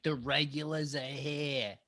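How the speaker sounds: put-on slow Boston accent, R's dropped. Quoting Revere's warning, slow Boston accent. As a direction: drop the R's like an old Bostonian. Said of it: "he writes with a Boston accent".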